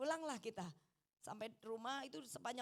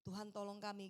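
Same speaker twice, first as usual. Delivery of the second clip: low, soft plea; silent inner prayer; 4 semitones lower, 6 dB quieter than usual. Retold or imitated. Wife praying in her heart during the commotion, low and soft. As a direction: pray it privately, under the voice. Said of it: "Saya berdoa toh dalam hati".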